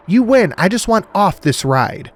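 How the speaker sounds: high, loud, slowing at the end; shouted surrender. A narrator's reading. Woman giving up, shouting at her captors. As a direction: yell it, then drag out the last words.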